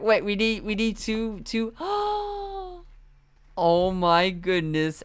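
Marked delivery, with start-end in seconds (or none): 1.8-5.0 high delighted gasp and coo; excited gasp. Real, not acted. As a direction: coo at something adorable. Delighted at cute aphid toy.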